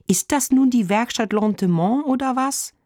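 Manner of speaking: exasperated, high-pitched questioning; annoyed. A narrator's reading. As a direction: demand an answer, fed up. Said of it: "fragt er genervt".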